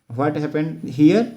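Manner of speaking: slowly, each word spaced, rising at the end; slow model question. Shown as a demonstration. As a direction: draw the question out for the class. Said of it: "teacher models question slowly".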